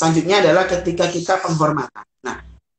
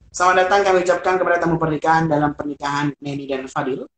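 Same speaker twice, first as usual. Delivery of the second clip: not smiling; 2 semitones lower than usual. Shown as a demonstration. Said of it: "Itu kayak nggak senyum".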